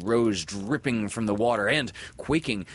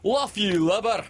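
high, loud pirate cry; a sailor barking across the water; Smee crying out; 14 semitones higher, 6 dB louder than usual. Acted. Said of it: "cried a voice that was Smee's".

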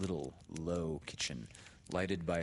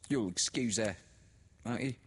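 higher, louder knowing tone; meaningly; 6 semitones higher, 5 dB louder than usual. A narrator's reading. Sister speaks to Laura, higher and knowing. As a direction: lean on it meaningfully. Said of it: "She said meaningly".

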